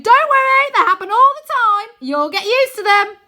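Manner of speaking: high, loud and bouncy; breezy, nothing to fear; cheerful reassurance. A narrator's reading. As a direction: Wynne brushing off the earthquake happily. Wynne cheerfully reassures during quake.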